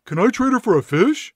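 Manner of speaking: high, loud put-on child; kid voice. Kid asks mom to swap the cat, high child voice. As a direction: ask mom as a hopeful child. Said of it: "And then the kid says".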